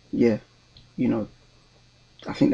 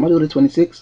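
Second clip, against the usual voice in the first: put-on amateur Scottish accent, louder and higher; attempted Scottish accent; 4 semitones higher, 7 dB louder than usual. Retelling the train woman's words, attempted Scottish accent. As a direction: have an unsure go at a Scottish accent. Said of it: "I don't know how to do the accent".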